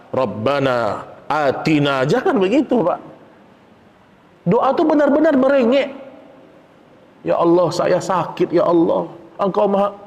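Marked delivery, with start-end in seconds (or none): 0.1-2.0 slow, stiff, dutiful prayer; formal prayer. Shown as a demonstration. Preacher mocking a dry, formal prayer. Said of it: "jangan kayak formalitas". 7.2-9.9 put-on a childlike whimpering prayer; whining plea. Shown as a demonstration. Preacher demonstrating to the congregation a whining, humble prayer. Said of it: "benar-benar merengek gitu loh".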